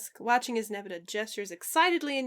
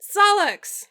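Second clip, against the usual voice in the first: happy call; 10 semitones higher, 13 dB louder than usual. A narrator's reading. Dave greets arriving friend.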